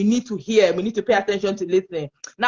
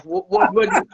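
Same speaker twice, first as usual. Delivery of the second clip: mock disbelief; 11 semitones higher than usual. People reacting with side eye.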